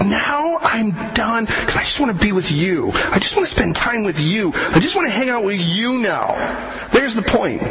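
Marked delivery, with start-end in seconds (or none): 0.0-6.3 God tenderly wants time with his people. Pretend. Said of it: "he's like".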